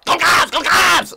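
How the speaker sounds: high, shouted New York caricature; mock New York accent. Streamer mocking the woman's New York accent, loud shrieking. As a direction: screech it in mockery of her accent. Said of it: "ratchet hoe's accent".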